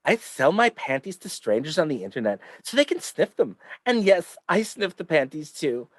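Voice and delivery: reading in a put-on lisp; lispy voice. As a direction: read it with a playful lisp. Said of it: "my lispy voice for this one".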